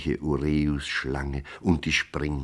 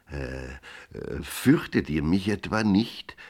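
meek; 3 semitones higher than usual. Acted. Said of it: "fragte der Räuber kleinlaut".

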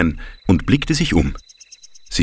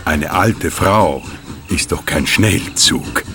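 put-on slow old lady voice; 3 semitones lower, slower than usual. Grete, old train voice.

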